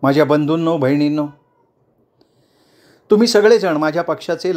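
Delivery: lightly voiced leader speaking to the crowd; calm and firm, she has the crowd's attention; politician addressing a crowd. Chandrakala addresses the protest.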